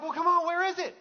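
high, loud, impatient mock panic; anxious dad. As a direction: act out a dad at his wits' end. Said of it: "He's having that anxiety".

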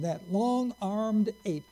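slow, drawn-out scornful jab; mocking sneer. Preacher quoting a rival's slur, slow and scornful. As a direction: drag out each word like an insult. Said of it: "That was a phrase that he used constantly".

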